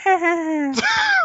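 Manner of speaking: high shrieking cackle; witch cackle. Acted. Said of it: "What's your best witch cackle?".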